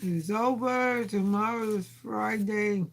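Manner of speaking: drawn-out slow words; slow and relieved, savoring it. Real, not acted. Slow relieved end of day.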